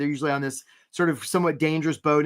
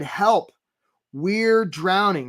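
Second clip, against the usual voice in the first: desperate employer; 3 semitones higher, much slower than usual. Retold or imitated. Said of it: "They've said".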